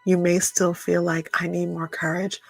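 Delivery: gentle body-scan guidance with long pauses; lightly held meditation voice, leaving space after each question; guided meditation. Acted.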